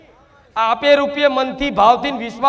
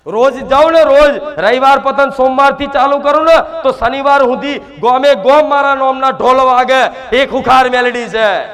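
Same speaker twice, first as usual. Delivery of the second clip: loud proclaiming shout as the goddess; full-voiced roar of a fierce goddess; 5 dB louder than usual. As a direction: bellow the boast to the whole crowd. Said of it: "આટલી બધી રાડો પાડી પાડીને જોર જોરથી બોલું છું".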